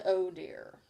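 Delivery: sorrowful. A narrator's reading. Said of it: "in a sorrowful tone".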